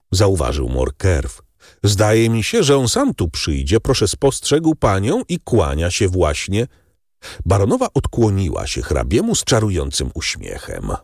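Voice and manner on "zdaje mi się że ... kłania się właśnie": lightly voiced Morcerf. A narrator's reading. Morcerf sees the count coming.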